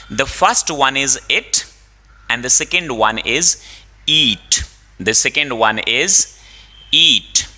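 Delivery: slow, deliberate word by word; slow teaching. Shown as a demonstration. Teacher showing students it versus eat, slowly. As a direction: spell out the difference slowly. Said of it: "contrasting it and eat".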